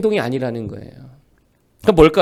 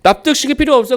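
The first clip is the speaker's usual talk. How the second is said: louder, higher 납득시킬 필요 없어 with 필요 hit hard; emphatic restatement; 5 semitones higher, 4 dB louder than usual. Acted. Preacher restating God's words to the congregation, loud and emphatic. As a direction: punch 필요 and fall off at 없어. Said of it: "나는 나다, 이놈아." 이거거든요".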